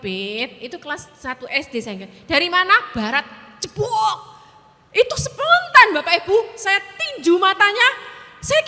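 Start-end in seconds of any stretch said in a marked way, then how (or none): 2.3-3.2 high, loud demanding question; exasperated quiz. Retold or imitated. Mother drilling child again. 3.6-4.2 sharp high jebok for a blow; punch sound. Retold or imitated. Mother hits child.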